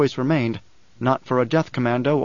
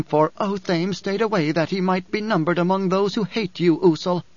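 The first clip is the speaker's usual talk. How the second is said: higher character voice, measured and firm; Dory, firm woman; 5 semitones higher than usual. Acted. Dory urges Paul to take the dwarf, firmly. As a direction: lift the voice for a resolute woman.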